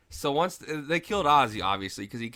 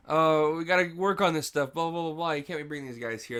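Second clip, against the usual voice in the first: higher-pitched mock whine of complaint; retold griping, pitched up a little; mimicked complaint; 5 semitones higher than usual. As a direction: lightly mimic a fussy sorority girl. Mimicking sorority girl's complaint.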